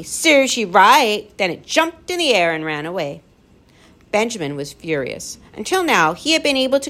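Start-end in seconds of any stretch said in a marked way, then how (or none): 0.0-1.3 loud, high, drawn-out jeer; nasty scream. A narrator's reading. Gaboon racing up to crying Lindy, screaming nastily. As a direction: scream it spitefully, stretching the words. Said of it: "screamed nastily".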